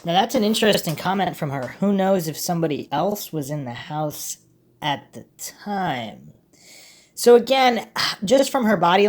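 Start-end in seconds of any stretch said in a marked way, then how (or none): 1.8-6.3 pointed quote. Retold or imitated. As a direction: quote the comment back with weight, sinking at the end. Host pointedly repeats interviewee's comment.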